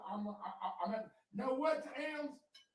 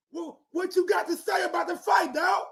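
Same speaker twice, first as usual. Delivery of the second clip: loud, higher, fast heated yelling; heated shouting; 6 semitones higher, 8 dB louder than usual. Real, not acted. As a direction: shout him down. Heated argument about fight.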